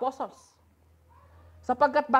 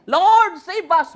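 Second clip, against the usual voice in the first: panicked cry for help; 5 semitones higher, 8 dB louder, much slower than usual. Acted. Panicked disciples wake Jesus.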